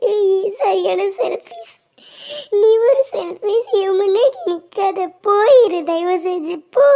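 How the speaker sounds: a wife driving away her husband; angry yell. Acted. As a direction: fling the word selfish at him.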